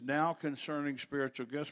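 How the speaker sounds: "Now" leaned on at the start; "Now" set out as the key word; stress on NOW. Shown as a demonstration. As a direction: put the emphasis on "Now". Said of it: "put another emphasis on the word now".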